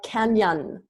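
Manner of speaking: "canyon" with a clear ny glide; teacher's model "canyon", ny in the middle; palatal n. Shown as a demonstration. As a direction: say "canyon" to show the ny sound. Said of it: "N with the squiggly line".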